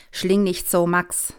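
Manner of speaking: a hint of a strict mother scolding. Mother scolding son at breakfast, mildly stern. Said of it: "sagt die Mutter streng".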